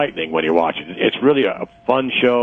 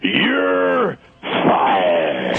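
catchphrase delivery; 4 semitones higher than usual. Pretend. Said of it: "Are you ready?".

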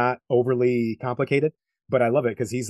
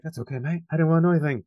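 imitating a film line in a rough British accent; badly faked British accent, quick quote; terrible British accent; 5 semitones higher, much faster than usual. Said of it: "trying to do a terrible accent".

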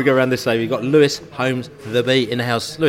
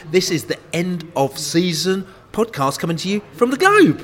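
announcing; 5 semitones higher than usual. Acted. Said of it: "shall I do it again".

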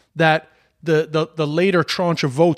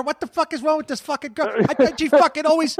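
much higher, pushed ranting tough-guy voice; Michael Rappaport rant; 8 semitones higher, faster than usual. Retold or imitated. Host answers the co-host's jab in his Rappaport voice, high indignant rant. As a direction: whine about the perfect woman like a bitter actor. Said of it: "my Michael Rappaport sounds like Bill Burr".

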